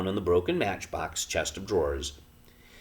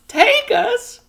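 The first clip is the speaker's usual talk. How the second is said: strange hollow voice; 13 dB louder than usual. A narrator's reading. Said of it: "in a strange, hollow voice".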